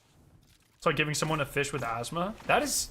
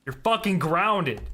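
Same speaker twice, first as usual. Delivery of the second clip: toxic dad; 3 semitones higher than usual. Pretend. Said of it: "the toxic dad personality comes out".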